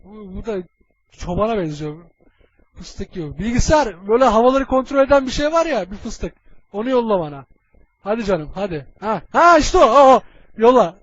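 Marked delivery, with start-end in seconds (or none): 3.4-5.9 calling out to computer. Acted. Shouting orders at the computer. 9.0-11.0 loud excited cry of recognition; excited shout. Acted. Commander spots the hero he wants, excited shout.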